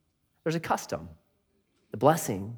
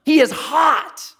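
higher, mock outraged protest; angry Jacob; 11 semitones higher, slower than usual. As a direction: storm in and confront Laban, lightly acted. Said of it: "storms into Laban and says".

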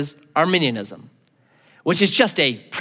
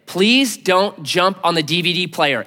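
parent warning; slower than usual. Retold or imitated. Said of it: "when you tell your kid".

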